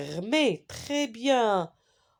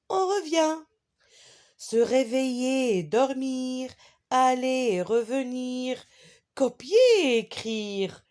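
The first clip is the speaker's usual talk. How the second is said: poem recitation; 3 semitones higher than usual. Shown as a demonstration. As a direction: recite it line by line, pausing after each.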